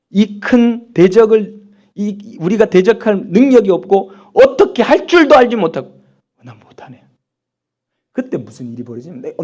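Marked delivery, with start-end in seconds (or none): 0.1-6.0 loud, higher cry of helplessness; desperate cry. Acted. Verse re-read as desperate cry. 6.4-7.0 hushed, sinking admission of helplessness; defeated whisper. Acted. Acting helpless admission after the cry.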